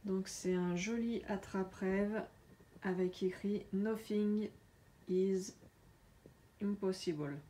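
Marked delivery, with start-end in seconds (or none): 3.7-7.4 English phrase with a strong French accent, "Nothing is impossible" said the French way. Real, not acted. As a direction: read the English words "Nothing" "is" "impossible" with plain French vowels and French stress. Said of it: "désolée pour mon accent pourri". (anglais avec un fort accent français)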